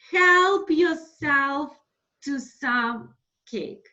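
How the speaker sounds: slow, careful model phrase; slow dictation. Shown as a demonstration. Teacher dictating an example to students, slow and clear. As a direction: dictate it slowly for students to copy. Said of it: "write down, please, this example".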